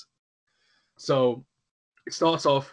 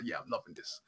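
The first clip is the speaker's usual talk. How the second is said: smug wife; 7 semitones lower, 12 dB quieter than usual. Retold or imitated. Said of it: "And she's like".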